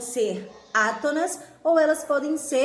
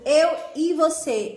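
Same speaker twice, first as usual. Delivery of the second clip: "eu e você" said louder, with "e" left light and unstressed; example phrase, spoken out; 3 semitones higher, 4 dB louder than usual. Shown as a demonstration. Teacher showing the class the unstressed "e" in "eu e você". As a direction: lift "eu" and "você", and let the "e" between them slip by weakly. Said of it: "Por exemplo".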